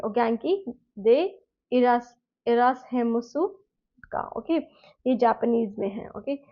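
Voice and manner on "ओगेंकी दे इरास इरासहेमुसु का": "ओगेंकी दे इरासहेमुसु का" slow, careful, formal; formal Japanese. Shown as a demonstration. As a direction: say it slowly to a teacher. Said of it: "तो आप ऐसे बोलोगे".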